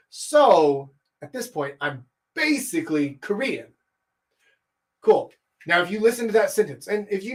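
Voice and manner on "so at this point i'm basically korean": slow "So at this point", punch "basically"; deliberate emphasis; emphatic slow delivery. Shown as a demonstration. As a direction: lean on "basically", draw out the start. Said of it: "I'm really emphasizing this point".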